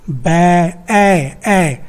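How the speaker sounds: "बै" then its vowel "ए" alone, repeated; isolated vowel. Shown as a demonstration. Teacher showing the one vowel, बै then ए said alone. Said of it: "सिर्फ एक स्वर मिला".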